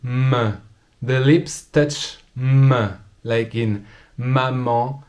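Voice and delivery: papa, tapis, bal, abbaye, maman, pomme said slowly and precisely; slow textbook pronunciation. Shown as a demonstration. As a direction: spell out each example word slowly. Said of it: "we have the P".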